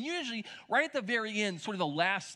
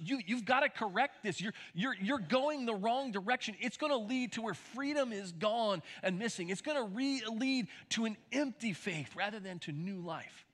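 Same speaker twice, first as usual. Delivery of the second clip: higher, urgent correction, easing at the end; upset urging; 5 semitones higher than usual. Retold or imitated. Paul warning the church off the wrong direction, upset. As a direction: plead with them as an upset apostle. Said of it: "Paul gets so upset about this".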